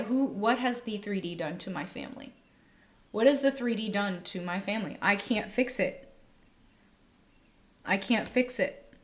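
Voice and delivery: channel someone's helpless hurt, slowing on the last words; subdued, emotional voicing of another's pain. Reader channeling someone distressed over family, emotional and slowing. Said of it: "I'm channeling somebody in right now".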